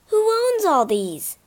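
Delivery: high, curious wonder; a boy wondering aloud, amazed. Acted. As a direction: marvel at the shelves, asking no one. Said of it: "Leo wondered out loud".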